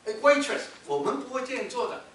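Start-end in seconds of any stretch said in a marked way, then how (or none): 0.1-0.6 shouted hail across a restaurant, high and loud; a brash yell for service; loud call. Shown as a demonstration. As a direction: call out to the waiter rudely. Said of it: "大声的呼喊说".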